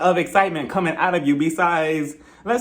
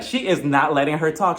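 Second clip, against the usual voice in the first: usual speaking voice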